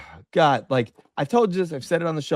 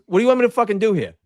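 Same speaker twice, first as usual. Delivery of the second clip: irritated customer; 7 semitones higher, much faster than usual. Retold or imitated. Angry customer retold in story.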